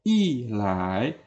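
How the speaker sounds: "i lai" with falling "i", rising "lai"; fourth tone before second. Shown as a demonstration. Teacher recapping examples, "i lai" falling then rising. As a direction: drop "i", then lift "lai". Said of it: "maka i ini juga dibaca i".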